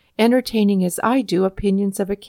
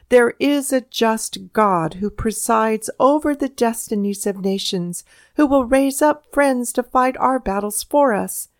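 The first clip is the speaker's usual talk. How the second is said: fervent appeal. A narrator's reading. Patrick Henry rallying the assembly, fervent oratory. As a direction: stir the House to resist. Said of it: "flung himself into that fervent appeal".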